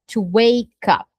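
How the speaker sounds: to wake up run together as one word; linked words. Shown as a demonstration. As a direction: glide to wake up into one smooth chunk. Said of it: "ela sempre junta".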